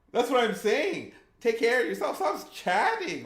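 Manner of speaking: loud, high scolding, slowing at the end; mock scolding. Real, not acted. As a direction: tell them off like a worried parent. Scolding a chatter with a knife.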